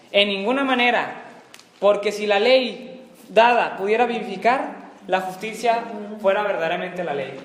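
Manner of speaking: measured, projected Bible reading; scripture reading. Acted. Teacher reading on through Galatians for the class, scripture reading. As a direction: read the verse out in deliberate phrases. Reads the verse aloud to class.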